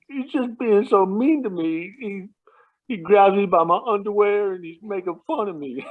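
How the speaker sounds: put-on high, whiny little-kid complaint; imitated tearful child. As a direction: mimic a wronged child close to tears. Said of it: "he was just about to start crying".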